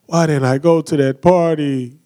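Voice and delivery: mock-mopey lament; gloomy Eeyore. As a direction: whine it like a sulky donkey, lightly. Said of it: "we sound like Eeyore".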